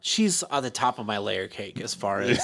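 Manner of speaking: laughing and half shouting the joke. Real, not acted. To the co-host about the lady, laughing. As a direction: laugh through it, teasing.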